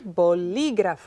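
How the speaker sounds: "bolígrafo" slowly, with the stress on LI. Shown as a demonstration. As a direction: draw out bo-LI-grafo to show the stress. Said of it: "I hear li".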